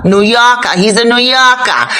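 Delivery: playful New York accent. Shown as a demonstration. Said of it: "sorry for the accent".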